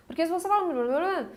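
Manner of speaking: "fala" running into a mumbled blur of vowels; unarticulated vowels. Shown as a demonstration. Speech coach demonstrates disrespected vowels, "fala" slurred into gibberish. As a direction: let "fala" collapse into mush, mouth barely moving. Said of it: "você não tá respeitando o A".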